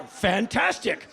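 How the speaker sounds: ordinary talk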